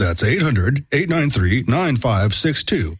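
lightly put-on radio announcer voice; a hint of a DJ reading the number slowly. Shown as a demonstration. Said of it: "That's my radio voice".

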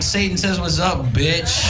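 loud, slow, laughing shout; mock shout. Comic yelling the punchline at the religious man, laughing shout. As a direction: bellow the punchline. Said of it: "I'm like".

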